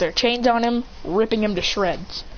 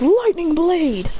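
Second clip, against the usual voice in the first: high, drawn-out technique shout; slow anime battle cry; attack call; 8 semitones higher, 4 dB louder, much slower than usual. Acted. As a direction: call the move, stretching the words. Calls out an attack move.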